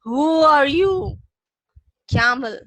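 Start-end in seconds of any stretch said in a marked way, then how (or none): 0.0-1.2 loud, slow roar of a lion; slow roaring demand from a lion. Acted. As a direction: bellow it like a lion. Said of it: "he's roaring and he asks".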